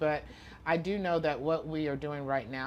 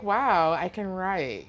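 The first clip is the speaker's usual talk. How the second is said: louder, higher burst of delight; retold amazement; 5 semitones higher, 8 dB louder, much slower than usual. Writer recalling her fifth-grade discovery, excited. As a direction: relive the thrill of discovering it.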